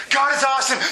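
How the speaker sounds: high, building list of praises, topped with a cry; exultant psalmist. Retold or imitated. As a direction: pile up praises toward a high shout. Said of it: "sometimes it's like".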